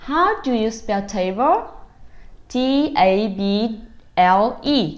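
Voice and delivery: put-on drawn-out cheerful questions to a toddler; upbeat parent. Parent quizzing baby about the table, sing-song. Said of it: "Thì chúng ta sẽ nói là".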